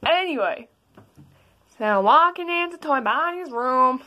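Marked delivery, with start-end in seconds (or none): 1.8-4.0 Flowey voice. Acted. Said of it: "Can you stop sounding like Flowey?".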